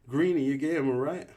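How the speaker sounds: put-on a British accent, insistent; British Newt. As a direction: make sure the new kid understood. Newt voiced.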